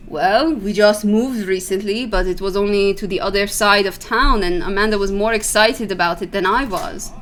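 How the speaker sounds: lightly put-on Persian accent. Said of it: "That's why I'm doing the accent".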